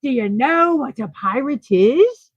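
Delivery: lightly put-on pirate accent, rising question; corrected pirate accent. Streamer retrying the meme line, pirate accent. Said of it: "There we go".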